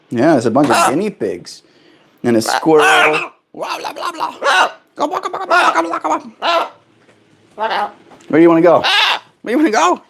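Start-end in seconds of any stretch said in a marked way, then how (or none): 3.5-10.0 very high sing-song coaxing. Real, not acted. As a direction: coo up high at the bird. Cooing to the bird.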